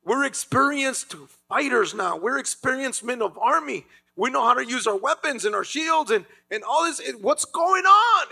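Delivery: rising from confident boast to a stunned high cry; confident then bewildered. Retold or imitated. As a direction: swagger first, then panic breaks through. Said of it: "the people of Israel are like".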